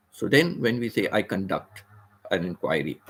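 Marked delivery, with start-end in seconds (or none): 1.1-3.0 "conduct" as con-DUCT; second-syllable stress. Shown as a demonstration. Teacher models the verb, "conduct" stressed on DUCT. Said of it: "emphasis is on the second syllable".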